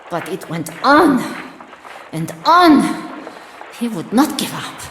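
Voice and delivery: building anger. Acted. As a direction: let the bitterness swell with each line. Soldier's memory rising to anger.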